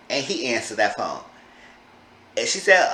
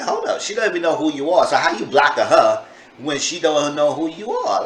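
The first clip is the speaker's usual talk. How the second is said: incredulous. Retold or imitated. Narrator confronts blocking.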